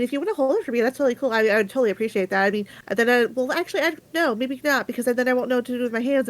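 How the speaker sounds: put-on fast, rambling young girl; nervous girl voice. Shy orphan girl rambles nervously.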